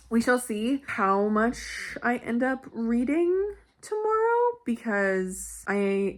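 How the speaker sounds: ordinary talk, nothing marked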